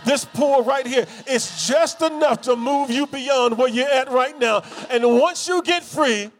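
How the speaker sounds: climbing preaching. Acted. Preacher urging the church to get unstuck, climbing fervor. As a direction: lift the room, keep climbing.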